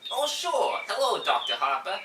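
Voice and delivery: lightly voiced New York cop; New York accent. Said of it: "New York accent".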